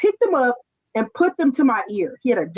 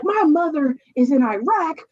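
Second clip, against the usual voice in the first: retold crying rant; 7 semitones higher than usual. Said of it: "I'm like".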